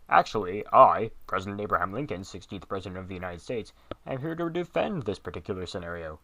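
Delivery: loud, booming presidential voice; deep booming Lincoln voice. Acted. Fake Lincoln defending the video, loud and booming. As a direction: boom it out like a pompous president. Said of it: "That deep, booming voice".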